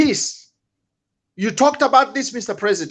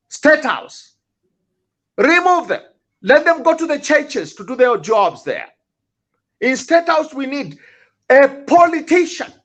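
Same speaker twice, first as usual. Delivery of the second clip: angry outburst. Real, not acted. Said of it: "this way of speaking".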